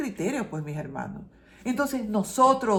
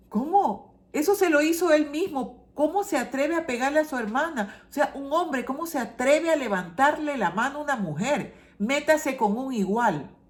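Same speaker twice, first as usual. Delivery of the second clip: higher, outraged protest; indignant outburst; 4 semitones higher than usual. Retold or imitated. Preacher answering the crying mother, higher and outraged. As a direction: demand how he dared, with rising indignation.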